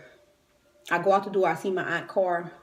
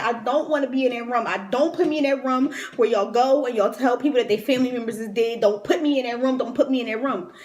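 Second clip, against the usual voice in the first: desperate pleading; 4 semitones higher, 5 dB louder than usual. Retold or imitated. Pleading with hospital man.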